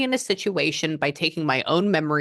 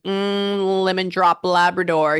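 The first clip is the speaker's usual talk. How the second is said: mock psychic muse; 4 semitones higher, 4 dB louder, slower than usual. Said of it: "if I say some weird shit like".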